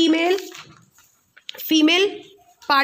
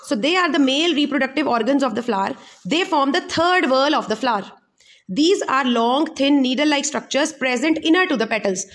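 very slow, spaced-out note dictation; dictating a textbook definition word by word; much slower than usual. Acted. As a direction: read it out slowly so students can write it down. Dictating notes slowly.

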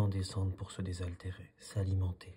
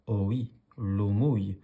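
a lightly voiced cat, a bit louder; mewing cat; 6 dB louder than usual. The white cat teasing the duck, lightly mewed. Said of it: "miaule la minette".

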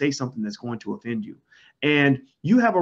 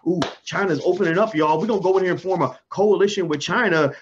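mock eager world; 3 semitones higher than usual. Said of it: "The whole world was like".

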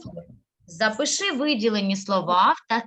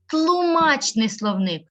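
slow teaching model; 3 semitones higher, much slower than usual. Shown as a demonstration.

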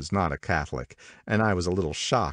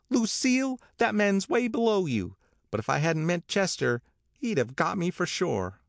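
very high, shrill society wife. A narrator's reading. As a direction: declare it vigorously, pitched right up. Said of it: "the shrill voice of Missus McKee".

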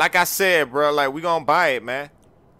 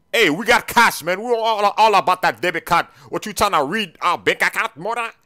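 agitated, raised-pitch protest; indignant hollering; 2 semitones higher than usual. Acted. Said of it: "keep hollering at me".

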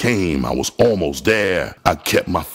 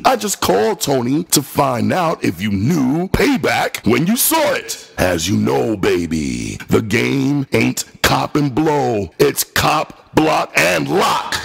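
taunting; 6 semitones higher than usual. Acted. Mocking Tony on the phone.

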